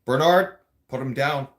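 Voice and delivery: first word called out loud and high; officers yelling. Retold or imitated. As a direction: shout his name across the unit. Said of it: "They kept telling me".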